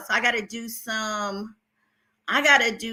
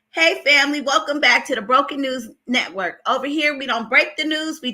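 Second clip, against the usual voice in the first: announcer intro; 3 semitones higher than usual. Shown as a demonstration. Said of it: "So this is what I'm gonna say".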